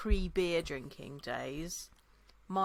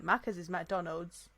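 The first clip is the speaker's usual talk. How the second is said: rising to a much higher, louder laughing disbelief; exasperated retelling; 6 semitones higher, 12 dB louder than usual. Retold or imitated. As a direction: tell the friend the obvious, cracking up. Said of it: "I'm like".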